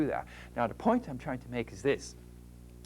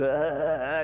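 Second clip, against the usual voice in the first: mock gasp; 4 dB louder than usual. Shown as a demonstration. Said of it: "and you're gasping".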